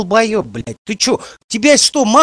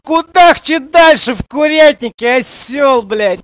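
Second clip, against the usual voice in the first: louder angry yell; angry shout; 3 semitones higher, 5 dB louder than usual. Real, not acted. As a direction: blast the insult at him. Streamer yelling at chat.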